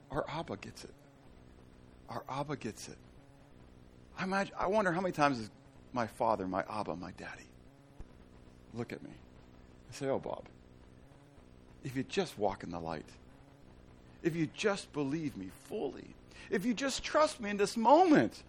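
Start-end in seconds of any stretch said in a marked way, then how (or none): 0.1-3.0 much softer, whispered-like; softly, full of feeling; near-whisper; hushed tender. Real, not acted. Tender repeated confession. 5.9-18.4 soft, lower, gentle; quiet tender plea; softer tender father. Acted.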